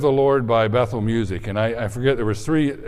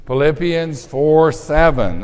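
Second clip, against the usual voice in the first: slow, louder verse reading; group recitation; 3 dB louder, slower than usual. Shown as a demonstration. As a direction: lead everyone in unison. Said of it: "Okay, everyone together".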